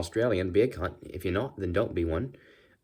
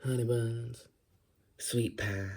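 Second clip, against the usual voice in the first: soft Southern sweet-talk, badly faked female; 6 dB quieter, slower than usual. Shown as a demonstration. Flirt in a bar, soft mock Southern female voice. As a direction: coo pet names as a Southern belle. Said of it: "voice like that".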